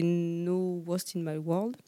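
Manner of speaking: slow English name in a French accent. Real, not acted. Founder naming her partner brand for the interviewer, slow French-accented English. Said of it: "Désolée pour mon accent anglais".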